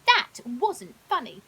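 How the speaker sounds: slow, loud, sulky complaint; grumpy. Acted. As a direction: let him sulk, dragging the words. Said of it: "said Leo grumpily".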